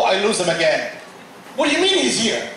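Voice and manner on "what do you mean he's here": high-pitched mock bewilderment; incredulous. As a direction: act out a baffled listener's protest. Listeners' disbelief, acted out.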